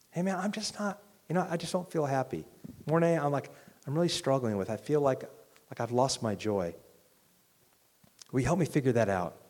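quietly admitting you lost your joy; quiet honest plea. Retold or imitated. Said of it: "let's figure out why that is".

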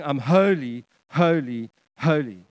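"holy" three times, spaced and falling in pitch; emphatic statement. Retold or imitated. Preacher quoting God making an emphatic statement, spaced and falling. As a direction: set each "holy" down separately, with weight. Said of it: "an emphatic statement".

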